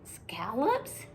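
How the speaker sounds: whispered, rising in disbelief; little sister horrified at the scissors; alarmed whisper. Acted. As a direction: breathe it in shock.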